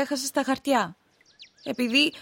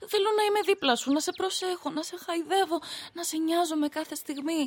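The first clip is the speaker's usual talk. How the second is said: tender pleading; 3 dB quieter than usual. Acted.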